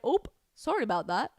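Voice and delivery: lightly hammed-up Canadian apology; a hint of a polite Canadian saying sorry; mock Canadian accent. Vlogger mimicking polite Canadians, mild mock Canadian accent. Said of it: "I have to work on my Canadian accent".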